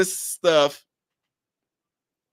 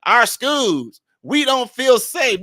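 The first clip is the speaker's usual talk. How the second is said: mock complaint; 4 semitones higher, much slower than usual. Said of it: "sitting there crying right now".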